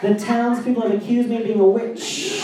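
mock-dramatic tale told with relish; dramatic storyteller. Wife telling her fantasy, hammed-up and dramatic. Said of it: "She was like".

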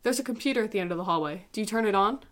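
calm narrator reading her own essay; dramatic essay reading. Acted.

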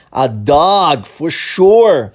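lightly voiced English answer; English quote. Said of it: "a resposta da pessoa foi".

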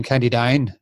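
Northern Irish accent on County Down; a touch of Northern Irish accent. Real, not acted. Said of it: "criticizing my, my northern accent".

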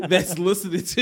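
high, loud laughing squeal. Real, not acted. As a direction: crack up, voice jumping high.

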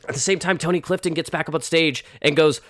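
ordinary talk, nothing marked

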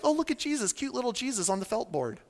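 lightly mock a fond little "aww"; gushing over something cute. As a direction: quietly play a charmed onlooker. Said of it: "it causes you to think, like".

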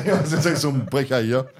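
chewing while talking. Real, not acted. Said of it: "wenn wir mit vollem Mund sprechen".

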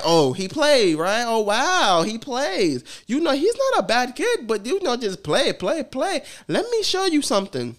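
lightly voiced teacher, patronising; teacher impression. Teacher speaking to the mother.

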